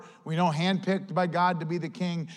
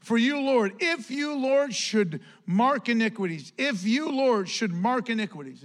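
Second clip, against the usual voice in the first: preaching at full force; 3 semitones higher than usual. Acted. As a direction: preach it hard to the church. Psalm read emphatically.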